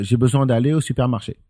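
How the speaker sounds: standard French, spoken fast and smoothly; regular French. Shown as a demonstration. Teaching the friend plain French, fast and smooth. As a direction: say it in the standard French most people know. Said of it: "a regular French would say".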